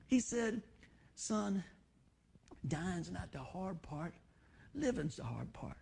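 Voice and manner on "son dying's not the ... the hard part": a son softly retelling his dying father's words, hushed and slow. Retold or imitated. Pastor quoting his dying father to the congregation, hushed. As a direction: let it sink to a near hush, slow and tender.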